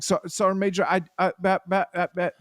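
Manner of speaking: mock stammering lieutenant; lightly acted flustered stutter. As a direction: trip over the words, caught out. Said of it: "just stuttering and stuttering".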